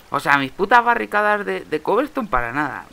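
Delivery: frustrated, high and loud; exasperated outburst. Real, not acted. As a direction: curse the wasted effort, easing off at the end. Cursing wasted barricades in game.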